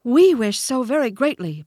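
high, loud fawn bleat; high-pitched baby deer voice; bleating young fawn. A narrator's reading. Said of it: "bleated a young fawn".

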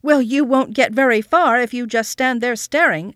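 loud, impatient nagging; aunt shouting at the boy who will not move; irritated shout. A narrator's reading. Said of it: "Detty had been shouting".

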